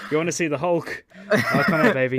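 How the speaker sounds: giggling, playful teasing; laughing tease. Real, not acted. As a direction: laugh through a teasing line.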